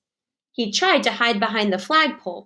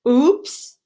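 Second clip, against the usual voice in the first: oops; 4 semitones higher, 4 dB louder than usual. Acted. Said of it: "cried Froggy".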